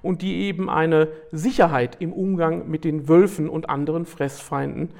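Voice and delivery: steady read-aloud narration; nature documentary. Acted. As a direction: read it like a wildlife film voiceover. Reads prepared text aloud.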